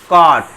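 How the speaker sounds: कॉट with open short aw; short o as in cot. Shown as a demonstration. Teacher drilling children: कॉट with open aw. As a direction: say कॉट with an open aw, not कोट. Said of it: "ऐसे मत पढ़ना कोट".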